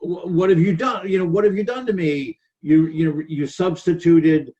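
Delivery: a hint of Jacob demanding an explanation; Jacob questioning. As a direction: quote Jacob's aggrieved question, mildly dramatized. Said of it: "Jacob is saying".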